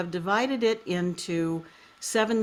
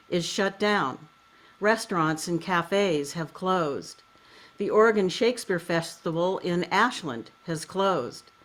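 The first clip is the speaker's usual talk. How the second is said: measured, literary reading with pauses between phrases; foreword read aloud. Acted. Host reads a poet's foreword to listeners, measured literary reading.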